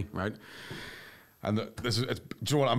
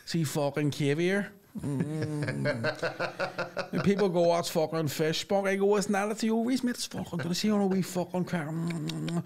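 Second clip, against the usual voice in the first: lightly voiced spide, showing off refined tastes; mock-savouring Belfast lad; Belfast lad gourmet; 6 semitones higher than usual. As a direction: play a Belfast lad as a food snob.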